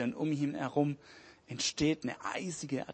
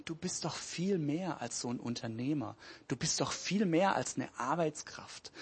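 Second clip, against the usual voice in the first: tender father; 4 dB quieter than usual. Acted. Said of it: "sein Vater sagt ihm".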